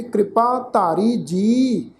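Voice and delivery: slow, measured Gurbani reading; scripture recitation. Shown as a demonstration. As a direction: recite line by line with drawn-out syllables and pauses.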